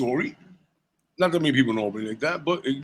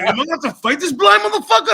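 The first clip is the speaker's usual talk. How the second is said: fired-up rant; 7 dB louder, faster than usual. Retold or imitated. Retold inner thought, fired up.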